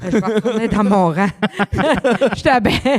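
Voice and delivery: rit en reprenant la phrase; répondre en éclatant de rire; en riant. Real, not acted. Retourner dans son rang, rires. (en riant fort)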